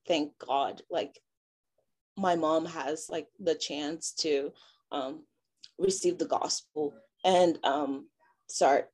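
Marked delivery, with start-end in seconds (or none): 0.1-6.9 voice breaking. Real, not acted. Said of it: "my voice is, like, breaking".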